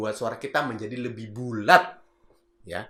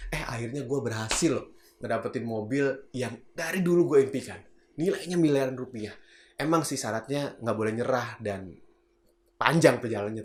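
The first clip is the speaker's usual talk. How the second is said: heart-to-heart. Shown as a demonstration. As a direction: confide it sincerely, without shouting. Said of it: "ngomongnya dari hati ke hati". (bicara dari hati ke hati)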